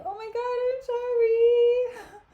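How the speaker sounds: high, flustered gasp of apology; flustered oh my God. Retold or imitated. Cassio caught out by Bianca, high flustered apology. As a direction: squeal it out, caught red-handed.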